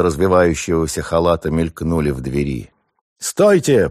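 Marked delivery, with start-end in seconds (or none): 3.2-3.9 high, loud shout. Acted. Somov shouting at the robbers to stop, high and loud. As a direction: bellow it through the rooms. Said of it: "пронёсся по комнатам крик Сомова".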